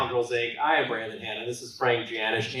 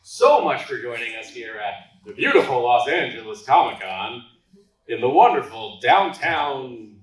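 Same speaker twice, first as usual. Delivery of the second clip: announcer voice; 5 dB louder than usual. Acted. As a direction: boom it out like a show host. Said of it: "Are you trying to do the announcer voice?".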